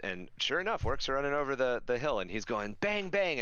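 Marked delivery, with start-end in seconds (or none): 2.8-3.4 high-pitched make-believe gunshots; playful finger-gun bangs; pretend gunfire. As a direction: call out the shots, pitched way up. Guardsman imitating gun with a stick.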